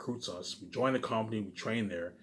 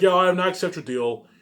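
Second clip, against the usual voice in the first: mock actor reply; 2 semitones higher, 7 dB louder than usual. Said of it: "all gonna be like".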